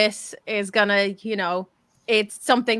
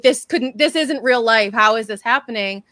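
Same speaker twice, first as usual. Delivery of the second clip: mock screaming at TV; 5 dB louder than usual. Viewer screaming at reality TV, mock outrage. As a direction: mildly yell at the screen. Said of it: "you're screaming at the T V".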